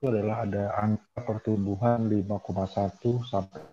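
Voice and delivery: breaking up, cutting in and out; glitchy internet audio; choppy connection. Real, not acted. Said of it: "suaranya agak putus-putus sama pelan".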